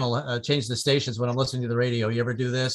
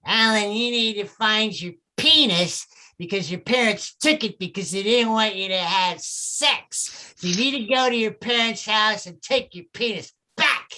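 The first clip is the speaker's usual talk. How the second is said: therapist; 6 semitones higher than usual. Retold or imitated. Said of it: "She's like".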